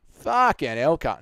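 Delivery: exaggerated Australian vowels; broad Australian swearing; Aussie accent demo. Shown as a demonstration. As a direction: pull on the A's and R's like an Aussie. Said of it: "pull on your A's and your R's".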